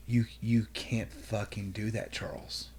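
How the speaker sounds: soft, hissed reprimand dropping to a whisper; wife shocked, scolding under her breath; hushed scolding. Retold or imitated. Wife scolding husband after the fight, hushed whisper. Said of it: "she's like".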